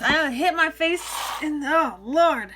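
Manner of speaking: loud startled yelp; startled outburst. Real, not acted. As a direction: blurt it out, caught off guard. Hit her face on the jar.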